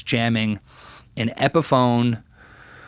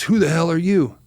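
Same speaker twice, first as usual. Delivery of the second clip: lightly acted higher-pitched challenge; retold demand in a raised pitch; a rock singer; 6 semitones higher than usual. Rock star confronting the young musician at rehearsal, lightly imitated challenge. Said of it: "the singer. He goes".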